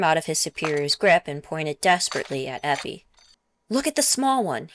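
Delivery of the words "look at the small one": higher, pleading whine; pleaded. A narrator's reading. Conscript pleading with his superior to check the girl, higher. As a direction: beg the officer to look, mildly voiced. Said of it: "he pleaded".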